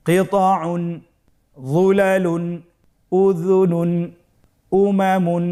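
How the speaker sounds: a teacher leading the class, word by word; fluent reading without spelling. Shown as a demonstration. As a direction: read it whole for the class to repeat. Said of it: "বানান ছাড়া দ্রুত করে পড়ব".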